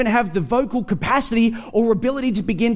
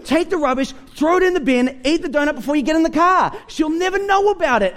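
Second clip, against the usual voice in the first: lightly voiced scheming donut, higher; coaxing donut; 6 semitones higher, faster than usual. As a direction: persuade him to hide it. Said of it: "The donut says".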